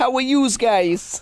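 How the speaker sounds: high, tough-talking street wise-guy voice. Greeted by a co-host, answering in a newly adopted personality: wise guy voice. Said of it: "I'm a wise guy now".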